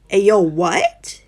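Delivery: slow, loud stunned outburst; shocked reaction. Real, not acted. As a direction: blurt it out in disbelief. Reader reacts to shocking plot.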